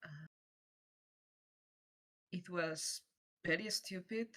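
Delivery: softly, putting the matter aside for later; subdued. Acted. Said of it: "and she's like".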